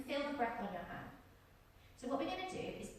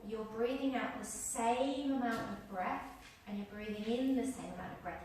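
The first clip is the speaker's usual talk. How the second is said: even steady voice. Shown as a demonstration. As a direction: keep the breath perfectly even. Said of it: "the breath should be even".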